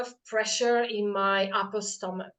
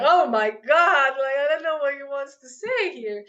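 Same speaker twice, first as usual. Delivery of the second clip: retold bewilderment; 4 semitones higher, 5 dB louder than usual. Retold confusion at psychic.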